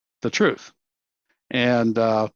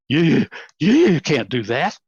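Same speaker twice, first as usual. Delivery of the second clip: retold angry outburst; 4 semitones higher, 5 dB louder, slower than usual. Boss yells during fight.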